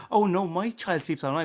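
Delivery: mock-smug boast. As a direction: humblebrag like a self-satisfied parent. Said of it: "say it in a smug way".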